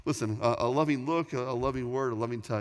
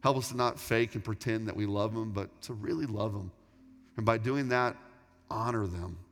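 prayer. Acted. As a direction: pray humbly and steadily for the room. Leads the closing prayer.

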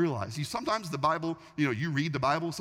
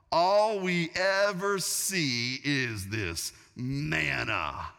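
hammed-up grumbling, slowing into drawn-out words; mock complaining; slower than usual. Israelites grumbling about their food in the desert, mock complaining. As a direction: whine through the list, stretching the last words. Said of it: "started to complain as well".

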